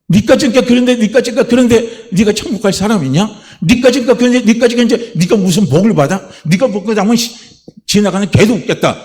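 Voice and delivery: high-pitched, scornful accusation; taunting Satan. Acted. Satan belittling a believer's hope of heaven, taunting. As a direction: belittle them, jab after jab. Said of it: "사단이 그렇게 해요".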